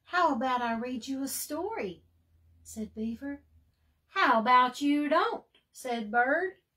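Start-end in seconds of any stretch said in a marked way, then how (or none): 0.0-2.0 eager bird voice. Acted. Bird's eager character voice. 4.1-5.4 grumpy refusal. Acted.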